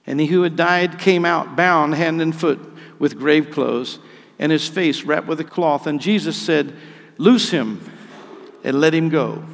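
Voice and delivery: loud, emphatic pulpit narration; forceful scripture reading. A narrator's reading. Forceful scripture reading after the cry.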